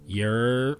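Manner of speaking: loud crowd call. Shown as a demonstration. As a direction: holler to grab the crowd. The call to get attention.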